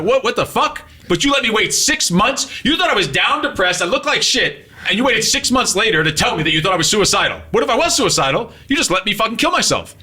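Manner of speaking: high, indignant outburst; disbelieving outrage at the friend who waited; outraged disbelief. Retold or imitated. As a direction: retell the friend's furious disbelief. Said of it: "He's like".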